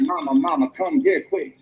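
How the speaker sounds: high, urgent cry for mother; frantic call for mama. Retold or imitated. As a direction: shout for mama in alarm. Boy calls mother in panic.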